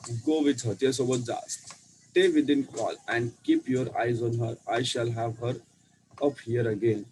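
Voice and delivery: put-on slow, careful story reading to children; slow read-aloud. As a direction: read each English word slowly for the class. Reads English story slowly aloud. (मुलांसाठी हळू इंग्रजी वाचन)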